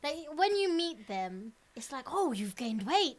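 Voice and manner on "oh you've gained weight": slow, drawn-out auntie tut; imitating a judgy auntie; a nosy auntie greeting you at a party, teasing; mock auntie. Aunties commenting on weight.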